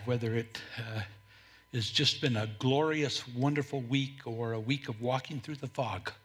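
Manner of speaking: low, quiet pastoral prayer; hushed opening prayer, pitched low. Real, not acted. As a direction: pray softly before the congregation. Opens the sermon with prayer.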